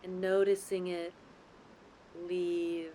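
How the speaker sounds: calm, unhurried guidance with long pauses between phrases; guided meditation. Real, not acted. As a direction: lead them gently into the breath, lingering on key words. Leads guided breathing meditation.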